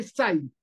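ZAIN with a plain hissed s, not buzzed; mispronounced Zain. Shown as a demonstration. Teacher showing students the wrong Zain, mispronounced. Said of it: "está mal dicho".

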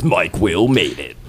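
low, slow sultry woman's voice; hot lady voice. Retold or imitated. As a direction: purr the producer tag like a sexy woman. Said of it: "that was my hot lady voice".

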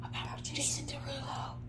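breathy ASMR whisper. Pretend. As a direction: whisper it close to the mic. Demoing ASMR whisper episode.

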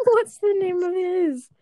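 laughing through the question. Real, not acted. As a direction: ask while giggling. Laughing while asking.

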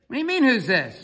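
high, loud retort into the phone; shouting back. Retold or imitated. Referee answering a puzzling caller, shouting back. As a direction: yell back over a bad connection. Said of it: "it's difficult reception".

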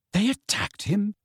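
high-pitched shocked question. A narrator's reading. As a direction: ask it aghast, voice shooting up. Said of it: "sounding shocked".

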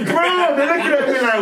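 high giggly retelling, laughing through it; can't stop laughing telling the fight story. Real, not acted. Laughing as he tells friends about the school fight.

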